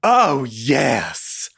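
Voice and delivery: put-on drawn-out, campy old man's relish; lecherous elderly dandy impression; old queen. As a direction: imitate an aged queen savoring the sight. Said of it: "eighty-year-old queen".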